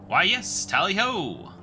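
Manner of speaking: hammed-up upper-class tally-ho; a hint of a jolly old chap; posh gentleman. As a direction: chirp it like a mock English toff. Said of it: "I suppose that will have to do".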